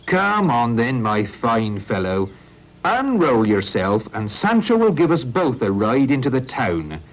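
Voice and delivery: a stubborn farmer refusing to let cars cross his land; Farmer Oatfield. Acted.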